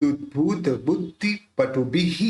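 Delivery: पटुभिः ending "bhihee"; visarga as hee. Shown as a demonstration. Teacher showing visarga, पटुभिः said with final hee. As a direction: echo the vowel after h in पटुभिः. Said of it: "उसका उच्चारण होगा".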